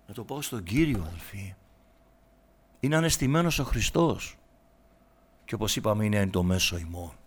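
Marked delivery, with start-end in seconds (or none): none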